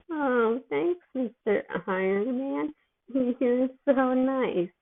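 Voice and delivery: slow, high, goofy thanks; dopey gratitude. Acted. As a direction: gush like a loopy teen. Drugged Peter thanking.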